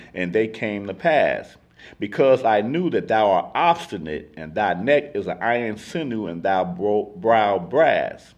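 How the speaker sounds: measured Bible reading aloud; scripture reading. Acted. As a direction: read the verse out with even, deliberate weight. Reads scripture aloud to the group.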